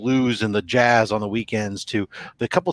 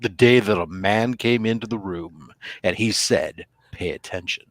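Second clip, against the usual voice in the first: slower, sultry radio read, dropping low at the end; super sexy radio voice; 3 semitones lower, slower than usual. Shown as a demonstration. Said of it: "go into the super sexy".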